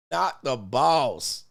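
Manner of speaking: drawn out, slow and heavy; slow for effect. Shown as a demonstration. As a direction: stretch every word slowly.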